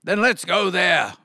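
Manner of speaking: high, eager doggy voice; barking dog. A narrator's reading. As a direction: bark out the suggestion. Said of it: "barked the dog".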